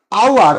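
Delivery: said with no h, starting on the vowel; "আওয়ার" with the h left silent. Shown as a demonstration. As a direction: say "আওয়ার" opening straight on the "ow" sound. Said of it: "উচ্চারণ কিন্তু আমি এইচ করিনি".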